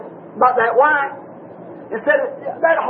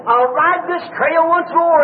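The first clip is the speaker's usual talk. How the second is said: screamed vow; 5 semitones higher, slower than usual. Retold or imitated. The rider on the rock, hands raised, screaming his vow. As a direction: stretch each word into a ringing scream, "I'll ride this trail once more". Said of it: "raised up your hands again and screamed".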